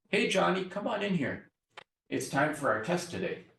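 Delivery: high, agitated call to Johnny; high tense voice calling a kid in for a test; hyperaroused teacher. Shown as a demonstration. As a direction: call Johnny in sharp and keyed up. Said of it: "What that means is angry".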